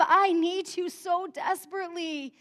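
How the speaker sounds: a touch of desperate pleading, easing off; desperate cry. Acted. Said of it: "It was this cry of".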